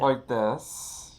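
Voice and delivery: mock British accent, retried; British accent attempt, second go. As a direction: have another go at a British accent. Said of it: "like, a British voice".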